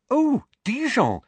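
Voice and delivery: light up at a place she knows; excitedly. Acted. Hermione interrupts Hagrid, excited and high. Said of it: "said Hermione excitedly".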